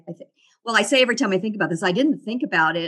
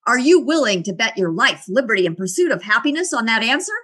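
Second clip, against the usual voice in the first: a louder, stern challenge from the teacher; fiercely grilling the student on her answer; 3 semitones higher, 5 dB louder than usual. Retold or imitated. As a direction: bark the question like a fierce algebra teacher. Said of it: "he looks at me really fiercely".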